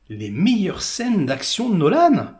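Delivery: slow, disbelieving repeat of the fan claim; slow scoffing question; incredulous echo. Real, not acted. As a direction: throw their words back, unconvinced. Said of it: "Non mais les mecs".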